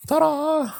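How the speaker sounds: high squeaky reveal with a laugh; mock ta-da. Streamer jokingly reveals the stars, high and laughing. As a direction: present it like a magic trick.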